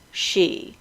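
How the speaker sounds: "she" set apart as a quiet model; pronunciation demo. Shown as a demonstration. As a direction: say "she" softly with a long EE, like the pronoun. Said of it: "like the pronoun for a female".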